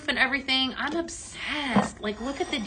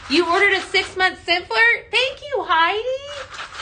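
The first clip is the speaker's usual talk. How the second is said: excited thanks; 8 semitones higher, 6 dB louder, slower than usual. Real, not acted. Viewer orders during live sale.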